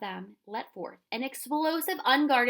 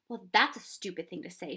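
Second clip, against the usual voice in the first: angry shout; 4 dB louder than usual. Acted. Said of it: "shouted Ben angrily".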